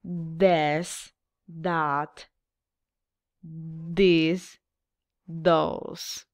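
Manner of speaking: "This, that, this, those" said slowly, with long gaps left for the class to echo; teacher saying "This", "that", "this", "those" and waiting for the class; model for repeating. Shown as a demonstration. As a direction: pause after every word. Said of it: "Repeat after me".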